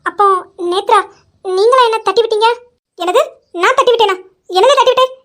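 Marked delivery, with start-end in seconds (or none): 1.4-5.1 loud, high indignant retort; outraged denial. Acted. Nethra loudly denies pushing Imaiya. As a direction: fire back offended.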